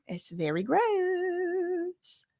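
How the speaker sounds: high, drawn-out disgusted whine. Real, not acted. Live streamer reacting to nasty chat, drawn-out disgust. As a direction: stretch out gross in mock revulsion.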